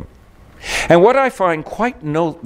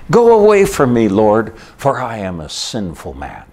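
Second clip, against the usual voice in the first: retold cry. Preacher voicing Simon Peter to Jesus, retold cry. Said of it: "he immediately cried out this".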